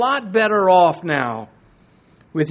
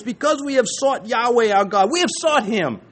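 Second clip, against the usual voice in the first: higher-pitched, insistent quoting; emphatic; 5 semitones higher than usual. Retold or imitated. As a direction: press the point home as you quote. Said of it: "he's emphatic about this".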